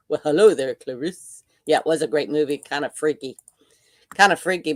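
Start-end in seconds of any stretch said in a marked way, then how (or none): 0.1-1.4 creepy greeting. Retold or imitated. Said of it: "in a scary voice".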